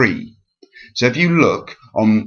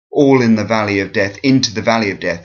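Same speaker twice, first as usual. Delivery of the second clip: ALL in the VALley of death, beats up front; falling dactylic stress; faster than usual. Shown as a demonstration. Teacher showing the falling rhythm, falling dactylic stress. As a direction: punch all, INto and VALley, tumble onward. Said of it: "this dactylic is a falling rhythm".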